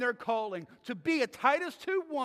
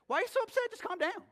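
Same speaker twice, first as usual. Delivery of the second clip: condescending husband; 11 semitones higher, faster than usual. Retold or imitated. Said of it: "when you looked at her and said".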